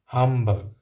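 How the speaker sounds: loud gruff miser's bark; grumpy Scrooge. Acted. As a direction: snap it like a mean old miser. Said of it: "said Scrooge again".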